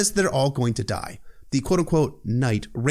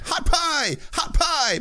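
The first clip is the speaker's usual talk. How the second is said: screamed war cry; much slower than usual. Retold or imitated. Hot Pie screaming his name while hacking at a man, a shrill mock war cry. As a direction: shriek your own name in battle. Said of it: "Hot Pie screamed".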